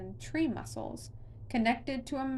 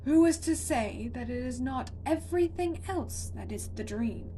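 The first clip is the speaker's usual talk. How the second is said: monster voice; 3 semitones higher, 4 dB louder than usual. A narrator's reading. Monster speaks to Connor.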